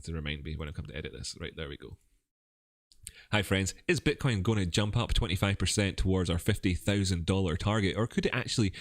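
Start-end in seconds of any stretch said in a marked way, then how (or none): 3.3-8.7 presenter's polished episode opener; video intro read. Real, not acted. Host opening a Bitcoin episode for viewers, presenter intro read. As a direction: deliver it as a rehearsed show intro to camera.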